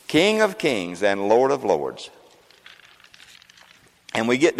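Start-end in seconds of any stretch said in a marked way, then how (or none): 0.1-2.1 solemn and slow. Acted. Repeating the title solemnly.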